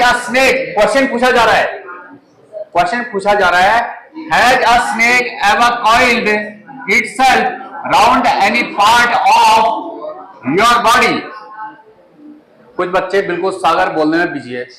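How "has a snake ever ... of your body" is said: slow, careful reading for a class; slow read-aloud. Shown as a demonstration. Teacher reads the lesson aloud to students, slow and careful. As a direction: model reading, word by word. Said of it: "अब मैं पढ़ता हूँ इसको".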